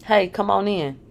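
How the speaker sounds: tipsy, slightly slurred greeting; a little drunk, words slurring. Acted. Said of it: "with a slightly slurred speech".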